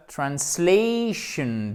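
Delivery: "translation" slowly, stretched SLAY with a diphthong; slow English "translation", trans-SLAY-shun; drawn-out model word. Shown as a demonstration. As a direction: model "translation" with a long stressed ay. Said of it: "Vous avez ici un A".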